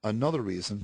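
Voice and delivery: throat needing a clear; husky catch in the throat; frog in throat. Real, not acted. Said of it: "let me clear my throat".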